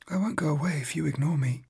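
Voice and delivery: soft teasing whisper; ghostly whisper. Acted. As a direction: whisper it close, like a ghost at his ear. Ghost taunting him quietly.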